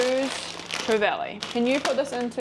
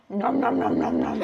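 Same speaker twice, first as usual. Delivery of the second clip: chewing noisily while talking; mouth full. Real, not acted. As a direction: nom nom through a mouthful. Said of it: "And talk with your mouth full".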